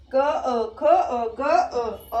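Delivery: क, ख, ग each echoed by अ; inherent vowel demo. Shown as a demonstration. Teacher shows अ sounding in every consonant, sounded out emphatically. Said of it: "अ का sound आ रहा है हमारा".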